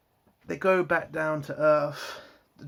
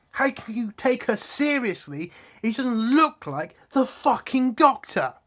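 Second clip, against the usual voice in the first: higher-pitched, exasperated ranting with punched swear words; angry rant; 5 semitones higher, 3 dB louder than usual. Real, not acted. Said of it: "Sorry, I'm just angry".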